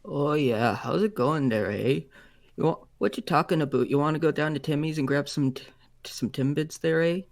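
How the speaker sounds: lightly hammed-up Canadian, tacking on eh; fake Canadian accent. Guest greets host in a mock Canadian accent. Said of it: "I'll never do that fake accent again".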